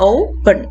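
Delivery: "Open" as O-pen, first syllable strong; teacher's demo of "Open" stressed at the start. Shown as a demonstration. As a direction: lean on the O of "Open", let "pen" drop. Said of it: "stress will fall on the first syllable".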